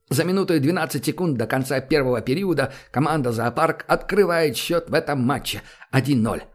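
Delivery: brisk sports play-by-play; hockey commentary. Acted. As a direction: call the game like a TV commentator. Commentator after the goal.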